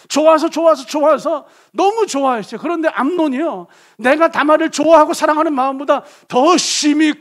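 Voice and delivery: loud, high, driving sermon voice; full-force preaching. Acted. Preacher presses the congregation with rising fervour. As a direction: preach it out to the whole hall.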